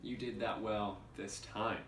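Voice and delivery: "time" set apart at the end; stress on "time". Shown as a demonstration. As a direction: lean on the last word, "time". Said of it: "different inflection on the words".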